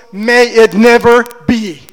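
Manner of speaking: loud, fervent denial, stress on never; with passion. Retold or imitated. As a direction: cry it out with zeal. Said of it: "he says it with passion".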